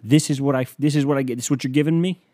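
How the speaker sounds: loud, exasperated shout upward; yelling at the sky. Retold or imitated. Comedian yelling at Jesus, loud and fed up. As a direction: yell up at God, fed up. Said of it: "I yell up at the sky".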